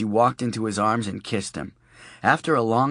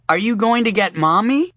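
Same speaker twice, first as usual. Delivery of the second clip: put-on high, louder small-child voice; little girl; 12 semitones higher, 7 dB louder than usual. A narrator's reading. Sophie asks her daddy, in a high small-child voice. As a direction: ask it like a small worried girl.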